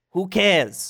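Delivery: put-on New York accent, laid on too thick. Voicing Randall, first try: too New York accent. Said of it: "that's too New York".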